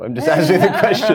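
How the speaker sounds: loud, high, laughing self-defence; laughing protest. Real, not acted. Joking over the buzzer game.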